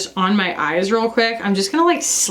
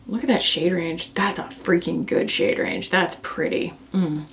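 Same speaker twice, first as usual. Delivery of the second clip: hushed admiration; 4 semitones lower, 5 dB quieter than usual. Real, not acted. Admiring the shade range.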